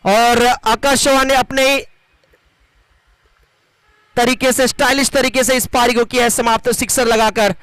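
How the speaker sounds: lively cricket play-by-play; live commentary. Acted. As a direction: call the match as it happens.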